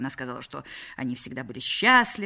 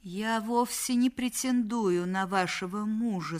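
slow, slightly raised voice; embarrassed; 4 semitones higher, slower than usual. Acted. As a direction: answer awkwardly, a touch of embarrassment. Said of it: "смущённо ответила Мадлен". (смущённо)

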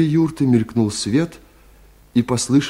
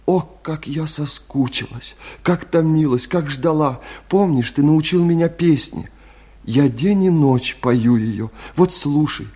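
higher, yearning woman's voice; passionate; 4 semitones higher than usual. Acted. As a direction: pour out tender longing. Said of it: "Сказала так страстно". (страстно, с томлением)

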